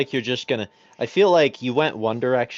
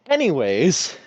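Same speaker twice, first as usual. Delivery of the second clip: imitating a sudden breezy pivot; teasing impression of changing the subject; mock abrupt topic change; 3 semitones higher, 4 dB louder, slower than usual. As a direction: mimic someone abruptly moving on. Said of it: "then you're immediately like".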